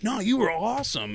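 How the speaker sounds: high-pitched mock reassurance; imitating a polite fan's high-voiced praise; consoling band member. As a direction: protest kindly in a high, light voice. Band consoling him, acted.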